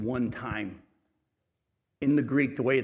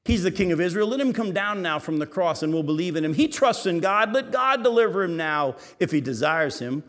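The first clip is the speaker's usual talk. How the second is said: mocking taunt; 4 semitones higher, 5 dB louder than usual. Priests mocking Jesus.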